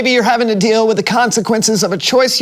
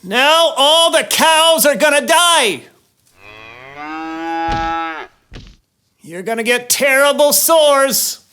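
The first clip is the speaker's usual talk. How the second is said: slow, high pronouncement; solemn warning; 5 semitones higher, slower than usual. Acted. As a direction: declare each plague slowly. Moses listing plagues.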